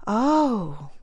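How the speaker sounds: a quick tender oh; tender little cry. Acted. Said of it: "a tender little cry".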